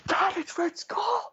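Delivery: very high, slow, squealing announcement; excited kid to dad. Retold or imitated. Kid telling her dad in the theater, high excited squeal. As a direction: burst out like a thrilled kid. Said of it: "I was like".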